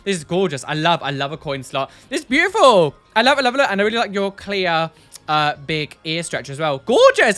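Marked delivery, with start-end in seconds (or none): 2.1-3.7 gushing. Real, not acted. Gushing over ear piercing photo. 6.8-7.4 squealed gorgeous; high, loud delighted squeal. Real, not acted. Squealing over piercing.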